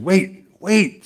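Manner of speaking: high, mock-urgent call to halt; firm interruption. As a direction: cut the complaining child off. Grandpa halts the crying child.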